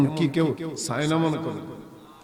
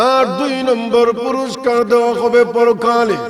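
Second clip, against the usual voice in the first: melodic preaching. Real, not acted. Preacher explains the verse's rewards, melodic preaching. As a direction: intone the promised rewards to the congregation.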